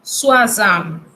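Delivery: soixante said swa-SANT with oi as wa; oi in soixante said wa, clearly French; soixante, crisp and French; French pronunciation. Shown as a demonstration. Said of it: "que se dice".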